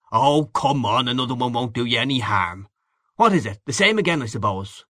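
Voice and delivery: knowing, worldly man, lightly voiced; hearty boastful Gallagher figure. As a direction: confide racy tales with a touch of swagger. Gallagher presses another drink.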